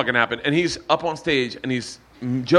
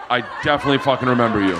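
rushed, laughing repeat of I definitely fucking remember you; fast; 4 semitones lower, much faster than usual. Real, not acted. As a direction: blurt it out quickly and low.

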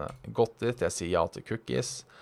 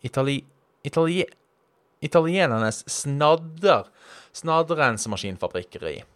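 Bergen accent attempt.

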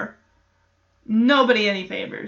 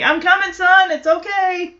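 put-on into the baby monitor; 7 semitones higher, 3 dB louder than usual. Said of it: "talk into it like a microphone".

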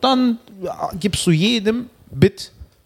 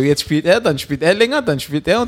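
higher, lightly voiced puzzled audience member; mock audience thoughts; 4 semitones higher than usual. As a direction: play a confused spectator counting who's on stage. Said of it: "Die werden denken".

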